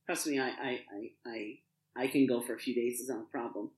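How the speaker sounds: low, soft, playing it down; low reassurance. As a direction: brush off the worry in a low, soft voice. Reassures the worried guard about not eating.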